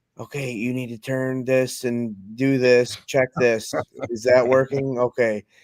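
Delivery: slow whispered speech. Hunter retelling troubleshooting by phone from a tree stand, retelling a whispered call. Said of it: "Why are you whispering?".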